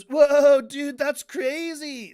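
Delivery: sudden loud, drawn-out amazement; loud surfer awe. Retold or imitated. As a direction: blurt it out, wowed and slow. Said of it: "he goes".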